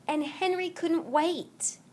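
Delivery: breathy eager whisper; excited whisper. A narrator's reading. Narrator whispering Henry's eagerness. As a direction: whisper it, bursting with anticipation.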